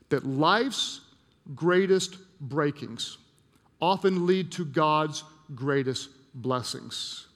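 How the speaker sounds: slow, emphatic repetition with pauses between phrases; letting it sink in. Real, not acted. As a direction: let each phrase land, slowly and firmly. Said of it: "I just want it to just sink in".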